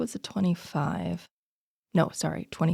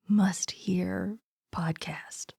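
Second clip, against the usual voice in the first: whispering; 4 dB quieter, much slower than usual. Pretend. Joking whisper aside.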